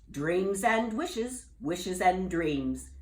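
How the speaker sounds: slow, knowing wizard; with a wink. Acted. Wizard teasing Jubal with a knowing wink. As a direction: savour each word, sly and slow. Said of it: "the wizard said with a wink".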